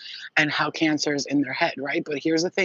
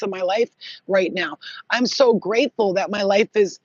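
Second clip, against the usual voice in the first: emphatic, lifted thankful declaration; grateful affirmation; 3 semitones higher, 4 dB louder than usual. Shown as a demonstration. Showing viewers how to thank the universe, emphatically grateful. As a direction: declare it with gratitude, leaning on each phrase. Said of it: "You're gonna say it like that".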